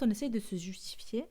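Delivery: unvoiced self-correction; whispered aside. Real, not acted. Podcaster hesitating over her own word choice, whispered. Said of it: "mais oui c'est ça".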